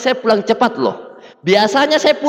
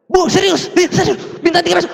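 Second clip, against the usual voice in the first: surprised question; 7 semitones higher than usual. Retold or imitated. Upline amazed at his claim.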